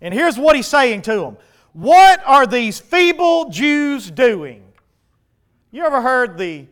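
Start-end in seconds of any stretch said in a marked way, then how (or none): 1.7-4.6 slow, loud mocking yell; yelled taunt. Sanballat yelling at the Jews before the army, a slow loud mocking jeer. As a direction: drag out the jeer at the crowd. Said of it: "Yelling it out".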